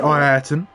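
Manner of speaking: Ayrton with a leading "eye" syllable; his earlier pronunciation. Retold or imitated. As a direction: say Ayrton as "eye-AIR-ton". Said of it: "for a while he pronounced it".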